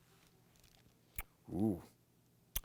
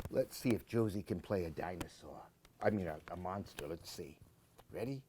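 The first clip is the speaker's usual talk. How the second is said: quick conspiratorial whisper; 5 semitones lower, 8 dB quieter, much faster than usual. Real, not acted. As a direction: whisper fast as if sharing a secret. Reader whispers to listeners.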